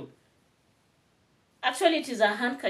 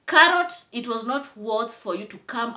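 angry call-out; 4 dB louder than usual. Real, not acted. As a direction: call her out sharply by name. Calling out the rival, angry.

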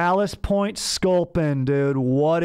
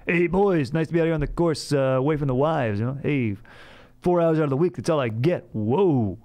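lightly voiced golf-course husband, lively swoops; mock-joke about being away from the wife; a touch of old-school jokey buddy; old-school golf guy. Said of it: "making old school style guy wife jokes".

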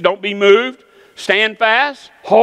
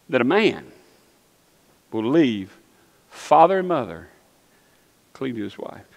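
low, soft and spaced out; tender hushed pronouncement; 5 semitones lower, 6 dB quieter than usual. Acted. Preacher voices God valuing woman, tender and hushed. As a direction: weigh each phrase softly, with long pauses.

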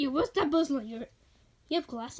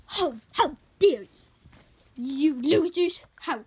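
mock outrage; 4 semitones lower than usual. Offended plush scolding others.

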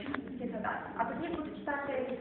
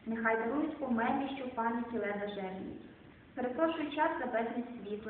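poetry reading. Acted. Recites Szymborska poems.

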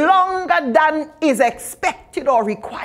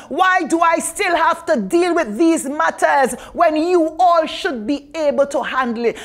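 frustrated Jesus. Retold or imitated. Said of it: "You almost hear Jesus saying".

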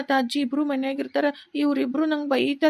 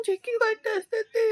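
put-on crying child; 4 semitones higher, 4 dB quieter than usual. Hungry boy cries alone.

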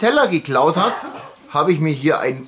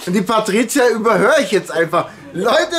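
raised, higher-pitched sign-off over an interruption; talking over; 5 semitones higher than usual. Real, not acted. Host talking over Patricia to finish the video, raised voice. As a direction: press on with the outro, voice lifted.

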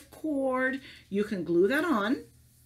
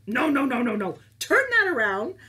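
emphatic no; 3 semitones higher, 7 dB louder than usual. Acted. Teacher telling kids to stop sulking, loud and upbeat. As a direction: cheerfully shut down the sulking. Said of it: "teacher correcting the mock sulk".

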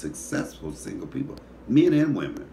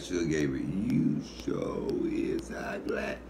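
slow, hushed whisper of "you sure is ugly"; sly whisper; 4 dB quieter, slower than usual. Retold or imitated. Whispering an insult about an ex's new partner, slow and hushed. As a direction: lean in and hiss the insult softly, very slowly. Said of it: "I'd be like".

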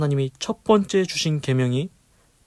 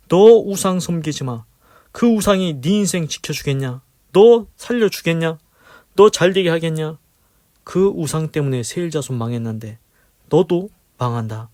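wrathful warning; 3 semitones higher, 5 dB louder than usual. Retold or imitated. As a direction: thunder the warning at a straying child. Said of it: "진노하시며 경고의 말씀을 보내십니다".

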